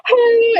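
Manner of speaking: high, wordless mock whimper; crying child's whimper. Telling how the little girl cried and pointed, imitated high whimper. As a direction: imitate a child too upset to talk, high-pitched. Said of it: "she can barely talk".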